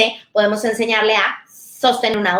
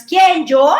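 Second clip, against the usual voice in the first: put-on high, louder little-kid "¿Quién, yo?"; mock innocent child asking who, me; child's protest; 6 semitones higher, 6 dB louder than usual. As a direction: play the caught kid denying it. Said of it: "Lo único que tiene que decir el niño es".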